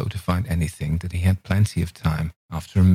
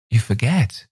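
put-on childish reproach; 5 semitones higher than usual. A narrator's reading. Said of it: "sweet extravagance of childish reproach".

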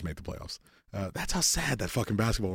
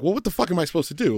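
retold anger; 8 semitones higher, faster than usual. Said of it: "now I'm mad".

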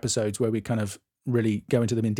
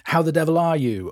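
hammed-up English; 4 semitones higher than usual. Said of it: "You need to say, like".

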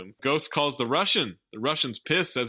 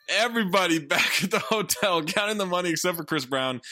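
put-on South African accent, a bit higher; 5 semitones higher than usual. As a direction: play the Lethal Weapon villain's South African accent. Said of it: "my impression of that guy doing one".

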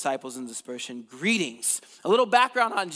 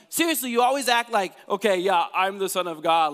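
louder, hammed-up sibling outburst; mock-indignant complaint; upset; 3 semitones higher, 4 dB louder than usual. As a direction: play an upset little brother mocking his sibling. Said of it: "James gets all upset".

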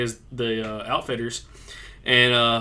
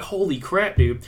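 amazed; 4 semitones higher, slower than usual. Retold or imitated. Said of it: "And I'm like".

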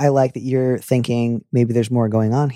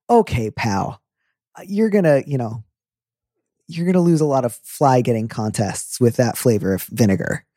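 folksy. Retold or imitated. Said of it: "a very folksy way".

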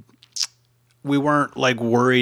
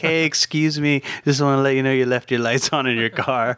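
retold friendly heads-up; 4 semitones higher than usual. Retold friendly favor to the girls.

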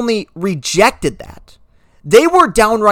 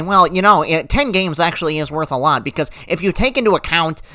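lower, softer smug pedant parody; mocking a Twitter know-it-all; 4 semitones lower, 3 dB quieter than usual. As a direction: play a rambling Twitter expert, lightly voiced. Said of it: "some schmo on Twitter will say".

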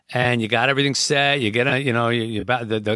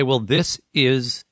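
slow tender goodbye; slower than usual. Retold or imitated. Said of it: "You say".

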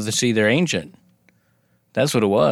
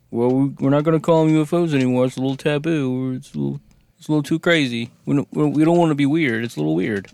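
mock officials; 4 semitones higher, faster than usual. Mock officials renaming UFOs.

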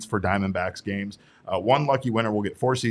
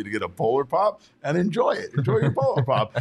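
ad pitchman voice; 7 semitones higher than usual. Retold or imitated. Host imitating his own Circle K video ad, hammed-up pitch. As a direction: sell the drink like a shouty ad. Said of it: "Little Derek on the screen telling you".

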